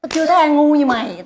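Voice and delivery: measured, scornful put-down; scornful remark. Acted. Manager belittles the singer after a silly game, scornful. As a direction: deliver the insult in disbelief, unhurried. Mocks the loser, first take.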